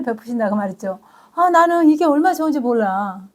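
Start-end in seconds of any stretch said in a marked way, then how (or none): 1.3-3.4 real joy cracking into a laugh; laughing through tears. Real, not acted. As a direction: let the joy spill over with a tearful laugh. Overwhelmed joy, laughing crying. (벅차서 울먹이며 웃는 목소리)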